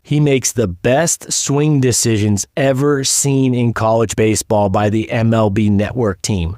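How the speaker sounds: slow, deliberate quote read with weight on makes; measured, emphatic reading of a scouting quote; slow verbatim read. Retold or imitated. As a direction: read the quote out slowly, word by word. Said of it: "here's what they said verbatim".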